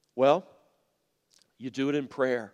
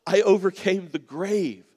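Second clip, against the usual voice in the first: lightly voiced Jesus. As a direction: speak as Jesus comforting the worried. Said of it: "I think Jesus would want to tell all of us".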